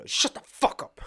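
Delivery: breathy whisper of the tired brain; mock whisper of sleep-deprived rage. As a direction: hiss it with no voice, secretly fed up.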